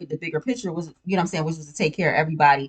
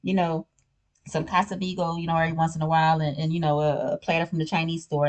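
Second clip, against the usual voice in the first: side chick voice; 5 dB quieter, faster than usual. Retold or imitated. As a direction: play the needy mistress, sugary and soft. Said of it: "they tell him, like".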